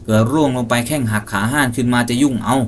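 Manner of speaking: buy time with excuses; stalling hunter. Acted. Hunter stalling the creature below, anxious. Som voiced higher, stalling.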